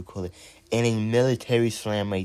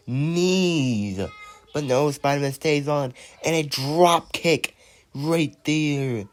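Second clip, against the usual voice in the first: excited commentary. Acted. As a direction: sell every move to the crowd. Toy wrestling play-by-play.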